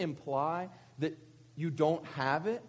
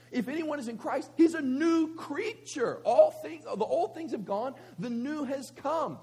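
high, driving sermon delivery; raised, insistent pulpit voice; impassioned preaching; 8 semitones higher, 5 dB louder than usual. Real, not acted. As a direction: preach it emphatically, pitched well up.

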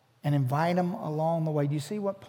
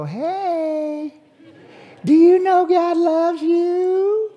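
put-on high, slow sing-song talk to a toddler; high, drawn-out voice for a two-year-old; silly baby-talk voice; 10 semitones higher, 9 dB louder, much slower than usual. Shown as a demonstration. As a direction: get down to a toddler's level and coo it. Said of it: "you change to that stupid voice and go".

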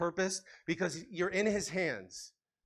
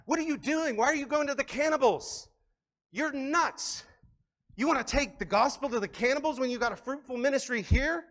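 incredulous friends; 6 semitones higher than usual. Retold or imitated. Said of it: "a lot of people are like".

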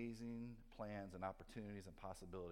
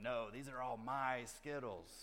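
slow, possessive growl of a greedy kid, half-played; mock little demon; 3 dB louder, slower than usual. Son refusing to share candy with his dad, slow mock-demonic possessiveness. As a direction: clutch the candy and drag it out like a tiny demon. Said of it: "sort of turned into this demon".

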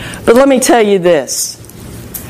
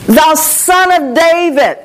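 higher, stretched mock yell; retold yell, slow and insistent; Bartimaeus yelling out; 5 semitones higher, slower than usual. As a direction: act out a long call without real shouting. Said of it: "began to yell out even louder".

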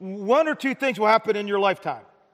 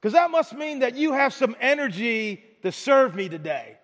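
gentle Jesus; 3 semitones higher than usual. Retold or imitated. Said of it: "He goes".

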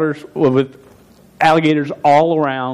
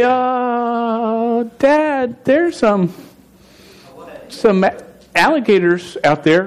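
put-on scared boy; 7 semitones higher, much slower than usual. Scared boy warns dad.

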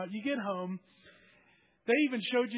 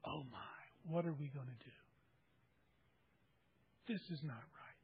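afraid; 6 semitones lower, 13 dB quieter than usual. Acted. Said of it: "they were afraid".

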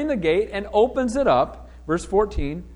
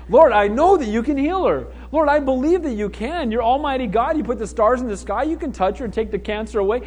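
imitated earnest prayer; 2 semitones higher than usual. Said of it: "Wasn't I praying?".

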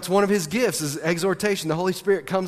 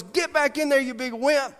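imitating a sister; 9 semitones higher than usual. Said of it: "and Courtney goes".

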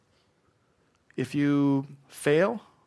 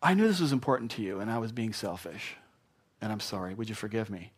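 sincere apology; 3 semitones lower, 3 dB quieter than usual. Shown as a demonstration. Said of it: "own up to it".

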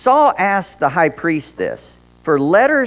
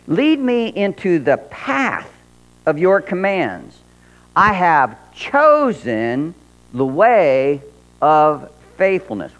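scripture reading; slower than usual. Acted.

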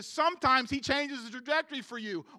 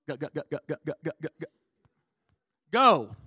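stuck record; 8 semitones lower, 5 dB louder than usual. Shown as a demonstration. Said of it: "my C D track got stuck".

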